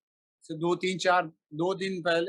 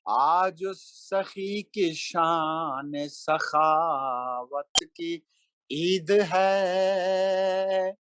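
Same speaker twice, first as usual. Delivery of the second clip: slow melodic chanted Urdu verse; stately nazm recitation; 2 semitones higher, much slower than usual. Acted. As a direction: intone each line like a mushaira poet. Recites a manqabat at a gathering.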